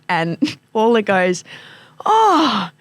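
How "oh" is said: high, drawn-out disbelief; imitating a friend's horrified reaction; mock outraged shock. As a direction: gasp it out high and slow, appalled. Acting out friend's shock at buzzer.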